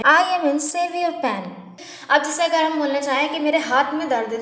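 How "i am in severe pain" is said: very slow, clear enunciation; slow model sentence. Shown as a demonstration. Teacher tells students what to say, very slowly. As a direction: stretch each word for the learners. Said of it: "तो आप बोलें".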